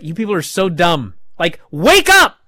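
loud high wake up call; host mocking the crowd, exasperated shouting; exasperated yell. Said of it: "and I was like".

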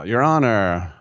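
folksy mock-humble plea to the court; caveman lawyer impression. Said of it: "I sound like Key Rock now".

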